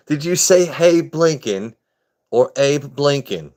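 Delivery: high, slow questioning movie quote; acted movie dialogue. Acting out a film scene.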